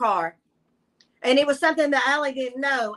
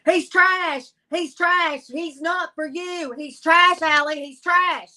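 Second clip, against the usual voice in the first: a heated mother's rebuke, a touch higher and louder; scolding mother; 3 semitones higher, 3 dB louder, slower than usual. Retold or imitated. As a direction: scold her daughter, repeating trash with disgust. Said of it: "and she's going".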